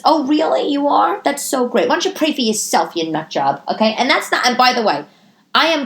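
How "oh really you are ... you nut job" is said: sarcastic comeback. Pretend.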